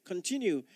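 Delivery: Continue set apart on its own and weighted with a falling tune; Continue given as the key word; stress on continue. Shown as a demonstration. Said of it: "I just want to pick on the word continue".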